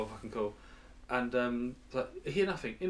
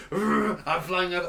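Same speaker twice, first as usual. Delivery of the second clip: robot voice; 5 semitones higher, 6 dB louder, slower than usual. Pretend. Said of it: "this robot, like".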